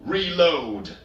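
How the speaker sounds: high, loud snapped command; shouted order. A narrator's reading. Darkseer ordering his squad mid-battle, loud shout. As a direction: bark the order over gunfire. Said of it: "he shouted".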